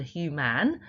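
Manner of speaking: "human" as hyoo-MAN, with a full A; spelling pronunciation. Shown as a demonstration. Teacher helping children remember spelling, "human" with a clear "man". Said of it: "that's helping you with remembering that".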